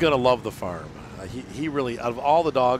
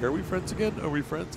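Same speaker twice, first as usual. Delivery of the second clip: dog voice; 8 semitones higher than usual. Retold or imitated.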